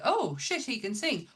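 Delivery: high-pitched mock astonishment; surprised realisation. Casting people discovering an actor's hidden singing talent, mock surprised. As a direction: imitate someone suddenly caught by surprise.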